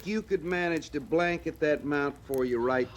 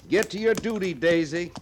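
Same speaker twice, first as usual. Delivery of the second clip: higher, teasing parting call; 5 semitones higher, 4 dB louder than usual. Acted. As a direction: rib him with a raised voice as you go. Sergeant teasingly dismisses the trooper.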